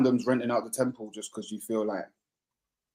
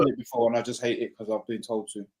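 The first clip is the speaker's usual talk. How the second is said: fast quoted voice; faster than usual. Retold or imitated. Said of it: "rather than have the thing of".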